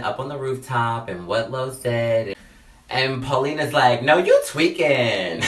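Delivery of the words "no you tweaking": laughing disbelief. Retold or imitated. Friend laughs at him.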